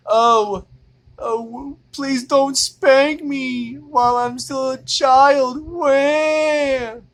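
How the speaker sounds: high, slow whiny little-girl voice, ending in a fake wail; mock little girl. Mocking women who hated spankings as kids, whiny child voice. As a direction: whimper like a scared child begging. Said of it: "they always be like".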